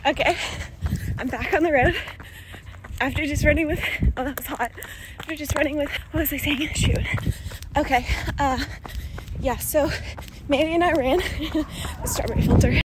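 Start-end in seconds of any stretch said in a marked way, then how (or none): 3.0-12.8 panting between words after a sprint; breathless, gasping mid-sentence; out of breath. Real, not acted. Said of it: "Excuse me for being out of breath".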